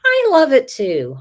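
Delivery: sudden happy exclamation; excited agreement. Real, not acted. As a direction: gush it, genuinely delighted. Agreeing warmly with viewer's compliment.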